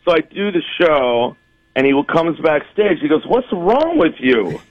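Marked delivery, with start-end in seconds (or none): 3.3-4.6 drawn-out, raised-pitch mock outrage; slow, higher-pitched retold scolding; indignant. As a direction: act out an affronted dad confronting someone. Angry doctor confronts comic backstage.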